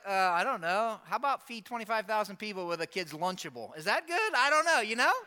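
mock-clueless shrug, lilting up at the end; smart aleck. Preacher imagines Jesus replying as a smart aleck, mock-casual. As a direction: play at being casually unsure, then rise teasingly. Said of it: "I might have been a smart aleck".

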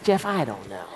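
low, clipped-off mock mentor reply; quick low shrug of an answer; short, curt Bob. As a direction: cut it short like Bob does. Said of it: "except he's short".

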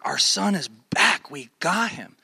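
slow, emphatic retold joy; mildly acted rejoicing; overjoyed parents. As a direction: imitate parents overwhelmed with relief. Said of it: "They were overwhelmed".

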